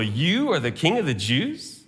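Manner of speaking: "You" stressed with quiet contempt; scornful question. Shown as a demonstration. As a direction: ridicule him as a mock king. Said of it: "with contempt and ridicule".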